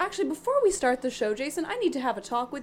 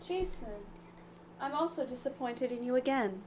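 robot voice; 8 dB quieter than usual. Real, not acted. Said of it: "Why do you sound like a robot?".

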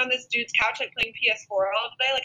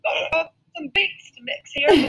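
slow, put-on cool dude voice, a bit higher; mock DJ voice; 5 semitones higher, slower than usual. Host mocking a reality star making beats, put-on cool voice. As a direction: drawl it like a bedroom producer.

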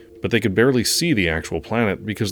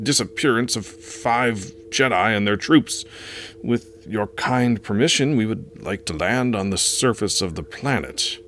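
shaky voice; 4 semitones higher than usual. Acted. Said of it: "said in a shaky voice".

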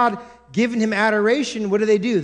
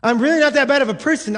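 faster, pushier insistence on not; insistent self-justifying; 5 semitones higher, 4 dB louder, much faster than usual. Retold or imitated. Preacher voicing a churchgoer, insisting defensively. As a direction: dig in, really protesting. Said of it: "simply thinking to yourself".

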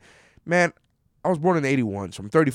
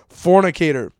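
"Fornicator." called out louder and higher, relishing it; delighted exclamation; 5 semitones higher, 8 dB louder than usual. Real, not acted. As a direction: show off the fancy word. Savoring the old word, bright.

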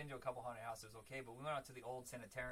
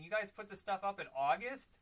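loud, higher, incredulous through laughter; laughing disbelief; 6 semitones higher, 10 dB louder than usual. Retold or imitated. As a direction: act out amused outrage. Acting out foreigners' disbelief at merch.

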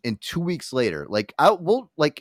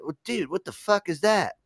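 pretend suspicious athlete; 9 semitones higher than usual. Athlete voiced in skit.

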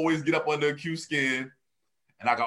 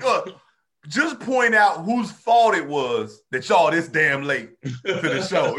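mock yell; 4 dB louder, slower than usual. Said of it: "And I'll yell out".

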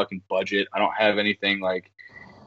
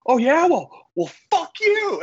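high, louder mock woman's voice; imitating her snapping back, pitched way up; 4 dB louder than usual. Retelling the caller cursing back, high mock woman. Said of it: "she was like".

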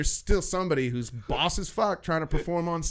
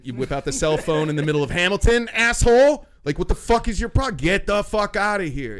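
loud, rising rant at a customer; angry telling-off; 5 semitones higher, 7 dB louder than usual. Retold or imitated. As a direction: build to a high, indignant order.

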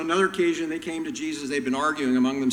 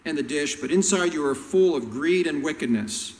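going off; 4 dB louder than usual. Retold or imitated. Jesus going off on the petty Pharisees, loud and fierce. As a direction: tear into them. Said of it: "He just goes off on them".

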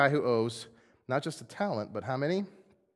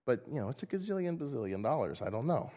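softened king; 7 dB quieter than usual. Retold or imitated. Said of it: "a little soft at that moment".

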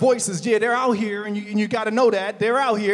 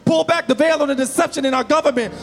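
fervent prayer. Acted. Pastor prays for the country, fervent pleading prayer. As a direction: plead with God to pull back the veil.

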